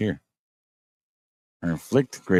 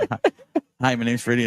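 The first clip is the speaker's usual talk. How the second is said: silly high voice; 5 semitones higher, faster than usual. Pretend. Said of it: "You should have left it on him like".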